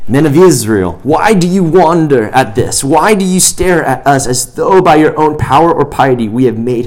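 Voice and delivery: earnest preaching read, building to a ringing appeal; scripture reading. Acted. Pastor reading Acts to the youth group, rising preaching voice. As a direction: read Peter's words as if preaching them yourself. Reads scripture aloud to congregation.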